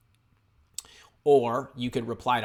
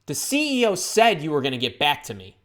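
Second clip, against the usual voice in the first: mean, louder reading of an email; accusing demo read, pushed louder; meanest voice; 6 dB louder than usual. Shown as a demonstration. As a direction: read it back as meanly as possible. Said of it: "read it in your meanest voice".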